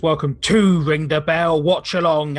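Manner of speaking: booming circus ringmaster announcement. Acted. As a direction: roll it out like a big-top ringmaster. Ringmaster-style show opening.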